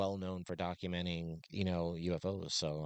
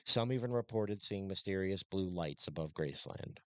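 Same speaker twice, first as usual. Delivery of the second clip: script read. Acted. Reads a prepared script.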